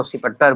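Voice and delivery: "सिपट्टर" as a mangled inspector; garbled English. Shown as a demonstration. Teacher mimicking failed English speakers, garbled "सिपट्टर". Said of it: "उल्टा सीधा उच्चारण कर देता है".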